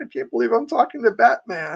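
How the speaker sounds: mock starstruck, giddy, high gushing fan voice. Retelling meeting an actor to get an autograph: imitating own giddy fanboy self. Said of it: "a giddy fanboy was like".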